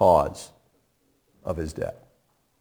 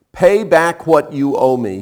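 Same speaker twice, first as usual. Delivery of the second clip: slow, louder demand; 5 dB louder than usual. Acted. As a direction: lean on each word, demanding. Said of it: "he demanded".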